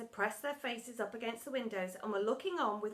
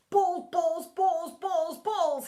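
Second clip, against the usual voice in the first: raised, insistent chant; obsessive repeating; 4 semitones higher, 6 dB louder, much slower than usual. A narrator's reading. Teacher hurrying indoors to himself, obsessive repeating. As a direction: chant it higher, like a fixation. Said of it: "he kept repeating to himself".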